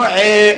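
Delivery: "eh" in place of an open alif; forbidden eh. Shown as a demonstration. Teacher saying it does not exist, wrong eh. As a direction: show the mistaken "eh" vowel. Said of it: "there is no".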